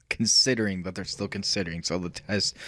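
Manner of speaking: rushing words on the last bit of air; breathless, trailing off; out of breath. Real, not acted. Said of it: "I'm running out of breath".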